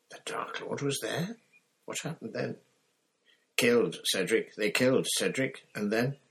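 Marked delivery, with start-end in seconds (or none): 3.6-6.2 a lightly voiced teenage boy pushing the words out; louder, urgent boy's voice; shaken boy. Harry tells Moody Cedric was killed, urgent and shaken.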